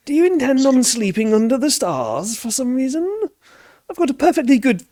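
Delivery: high, fussy posh farmer. Acted. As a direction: fumble for the word like a genteel farmer. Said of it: "this farmer's really posh".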